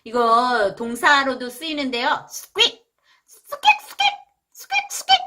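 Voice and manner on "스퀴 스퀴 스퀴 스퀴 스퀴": very high tiny squeak squeak; mouse squeak. Shown as a demonstration. Teacher imitating a mouse for the word squeak, high squeaks. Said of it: "찍찍거리는 소리예요".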